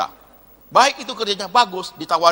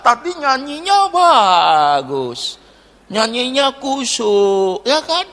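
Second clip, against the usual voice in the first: sarcastic aside; 4 semitones higher, 4 dB louder, much slower than usual. Acted. Mocking pious singers.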